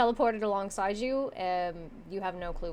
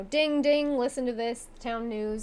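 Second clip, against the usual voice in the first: town crier call; 3 semitones higher than usual. Acted. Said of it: "yelling all about".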